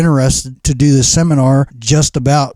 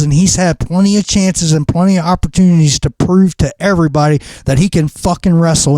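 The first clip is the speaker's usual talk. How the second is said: usual speaking voice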